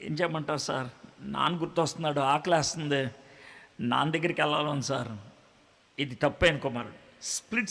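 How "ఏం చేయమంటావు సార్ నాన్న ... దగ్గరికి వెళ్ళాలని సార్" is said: mild sad lament. Acted. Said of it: "ఏడుస్తూ కనబడతాడు".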